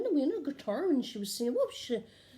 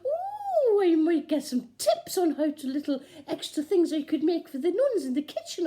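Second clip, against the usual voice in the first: excited thought; 3 semitones higher, 4 dB louder than usual. Retold or imitated. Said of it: "I thought to myself".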